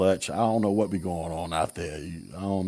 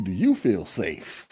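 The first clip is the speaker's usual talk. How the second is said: mock concern; slower than usual. Mocking a worried liberal.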